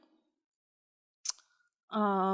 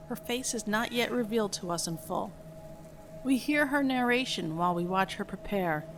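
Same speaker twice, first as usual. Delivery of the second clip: measured, even script reading; screenplay narration; 3 semitones lower than usual. A narrator's reading. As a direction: read the scene directions out evenly, lower than chatting. Reads film script aloud.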